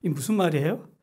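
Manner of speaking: ordinary talk, nothing marked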